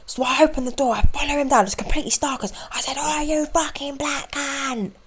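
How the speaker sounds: mock-dramatic neighbour's friend; mimicking the storyteller. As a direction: act out his crude boast. Imitating the stranger's climax.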